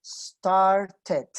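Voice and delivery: "Started" with the ED ending clearly said; "Started" said as star-ted, two clear syllables; voiced ED. Shown as a demonstration. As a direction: sound out the last syllable of "Started". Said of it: "ahí sí me suena la E".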